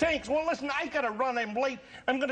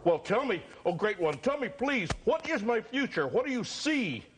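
pleading customer; 4 semitones lower than usual. Acted. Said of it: "the fortune teller".

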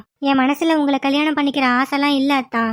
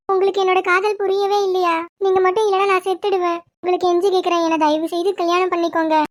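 put-on higher, pleading young woman begging him to marry her; pleading lovesick girl; 5 semitones higher than usual. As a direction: beg him sweetly in a raised girlish voice. Chandini pleads for his love.

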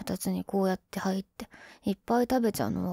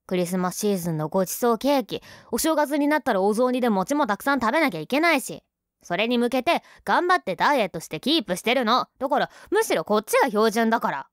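indignant rant; 2 semitones higher, 4 dB louder than usual. Acted. Indignant defense of her weight.

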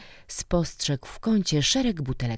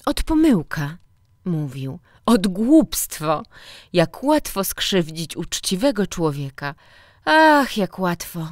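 a hint of a smiling inspector making amends; smiling apology; 4 semitones higher, 6 dB louder than usual. A narrator's reading. Director returning, apologising to the teacher with a smile. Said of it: "uśmiechał się do niego".

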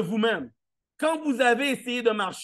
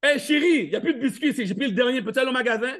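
playful adult to partner; 3 semitones higher, faster than usual. Pretend. Husband asking his wife to buy cookies, teasing. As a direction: laugh while asking a favour.

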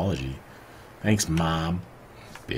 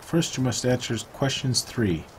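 Oracle voice; 6 semitones higher than usual. Retold or imitated. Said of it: "That was very Oracle-like".

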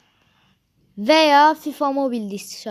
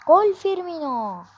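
excited commentator; 5 semitones higher than usual. Pretend. Calling goal while playing.

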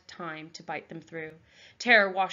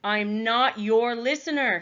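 steady as he can; 4 semitones higher, 6 dB louder than usual. Acted. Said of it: "as steadily as he could".

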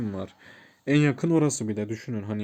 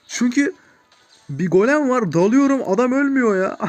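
mock angry rant; 9 semitones higher, 8 dB louder than usual. Retelling golem rage.

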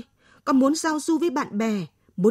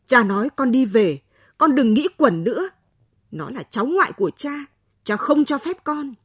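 loud, stern order to come home; father's stern shout; 2 semitones higher, 5 dB louder than usual. Acted. Father orders daughter home from clinic, loud stern shout. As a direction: bark the order at her, no arguing. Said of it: "Cha tôi quát".

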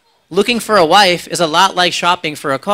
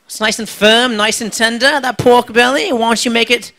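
Aussie TV judge; 4 semitones higher than usual. Retold or imitated. MasterChef judge seducing the cook with pork belly, higher and lingering. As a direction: savour each word like a flirty TV chef. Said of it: "They're like".

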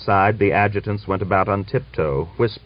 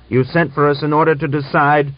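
forceful; 8 semitones higher, 6 dB louder than usual. A narrator's reading. Griagor's heated reply.

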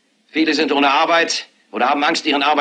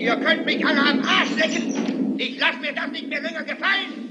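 frenzied screaming; 11 semitones higher than usual. Acted. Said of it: "und schreit und schreit und schreit".

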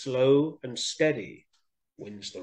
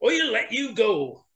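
high, amused lion with big chuckles; laughing lion; 9 semitones higher, 3 dB louder than usual. A narrator's reading. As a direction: scoff through hearty lion laughter. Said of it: "How Lion laughed".

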